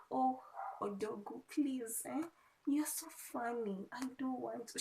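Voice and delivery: high coy pleading, lightly mocked; imitating the girl. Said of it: "The girl is like".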